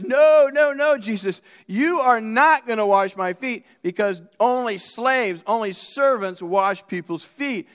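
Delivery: loud, high, drawn-out refusal; acted indignant protest. Preacher as Peter refusing to let Jesus wash his feet, indignant protest. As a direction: refuse emphatically, leaning on each word.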